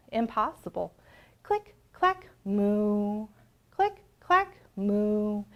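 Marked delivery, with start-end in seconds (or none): 1.4-2.3 high, bouncy click clack; typewriter clicks. A narrator's reading. Typewriter sound refrain, high. 3.7-4.5 high, bouncy click clack; typewriter clicks. A narrator's reading. Typewriter sound refrain, high.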